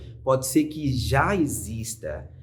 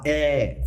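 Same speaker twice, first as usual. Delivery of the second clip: sustained vowel; 4 semitones higher, 4 dB louder than usual. Shown as a demonstration.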